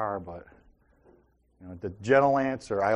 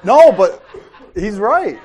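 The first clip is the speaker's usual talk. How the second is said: laughing; 8 semitones higher, 13 dB louder than usual. Real, not acted. Laughing at Cody's retort.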